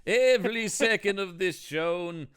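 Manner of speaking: high, hammed-up actor's demand; James Mason. Host demanding every minute be shown, mock James Mason. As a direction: insist grandly in a put-on star voice. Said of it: "Mason impressions".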